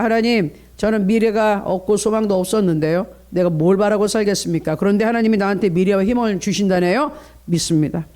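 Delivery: ordinary talk, nothing marked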